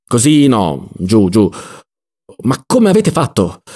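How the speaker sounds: short, urgent bursts of direction; flustered instructions. Acted. Don Lollò to the man stuck inside, flustered instructions. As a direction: coach him out impatiently.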